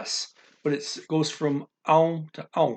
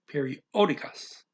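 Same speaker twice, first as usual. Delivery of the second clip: periódicas with the accented O brought out; stress on the O; 3 dB quieter than usual. Shown as a demonstration. Teacher drilling a Portuguese word, stressed O in periódicas. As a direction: put the weight on periódicas' O. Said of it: "gotta put that O loud".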